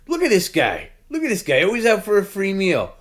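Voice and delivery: high, loud mock outrage at a guest; hammed-up disbelief about a freeloader; mocking Perry. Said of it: "Dan Dizak Perry always says".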